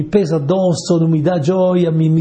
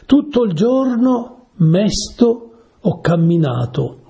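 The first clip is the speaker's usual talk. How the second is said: slow, raised and drawn out, like reciting a psalm; solemn scripture reading; 6 semitones higher, slower than usual. Acted. Preacher reads the psalm to his listeners, slow and solemn. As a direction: lean into each word of the verse, slowly.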